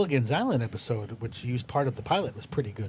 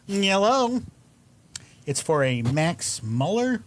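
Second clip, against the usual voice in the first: lightly put-on, louder phone voice; phone caller; 3 semitones higher, 4 dB louder, slower than usual. Caller asks for Max Muller in a put-on voice. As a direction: answer the phone in character. Answers pretend phone call.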